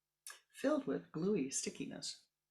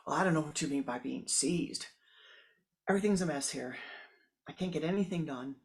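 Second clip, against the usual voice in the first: louder, defensive griping; defensive complaint; 6 dB louder than usual. Acted. The woman snaps back at the neighbor. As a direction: push back, irritated.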